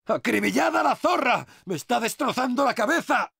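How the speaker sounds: high, pained urgency; agitated battle cry. Acted. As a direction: cry out over the splitting noise. Shouts over a screaming enemy.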